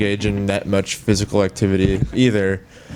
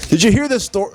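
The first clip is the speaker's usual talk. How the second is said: higher, louder morning-show host; radio host voice; 10 semitones higher, 3 dB louder than usual. Retold or imitated. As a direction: pitch it up like a DJ. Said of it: "I'm gonna do it like Bob and Brian".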